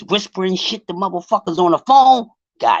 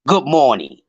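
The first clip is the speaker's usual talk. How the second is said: lower, smooth radio DJ greeting; 8 semitones lower than usual. Pretend. Greeting Tay Tay on air, mock radio voice. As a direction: croon it like a late-night radio host. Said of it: "I gotta get my radio voice on for Tay Tay".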